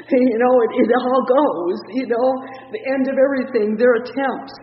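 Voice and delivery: loud, excited preaching burst, high; preaching at full force. Real, not acted.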